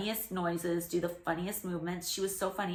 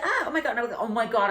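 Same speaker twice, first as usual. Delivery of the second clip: mock-alarmed, higher and louder outburst; startled retelling; 3 semitones higher, 6 dB louder, faster than usual. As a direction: act out a flustered yelp of shock. Acting out startled reaction to bite.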